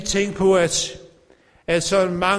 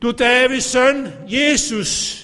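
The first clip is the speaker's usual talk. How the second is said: blind man's cry; 5 semitones higher, slower than usual. Retold or imitated. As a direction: cry out like the blind man to Jesus. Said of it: "Så råbte han jo". (blind mands råb til Jesus)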